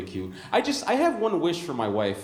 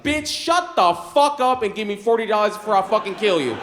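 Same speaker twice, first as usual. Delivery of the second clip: mock furious threat; 7 semitones higher, 9 dB louder than usual. Threatening the owner, punchline.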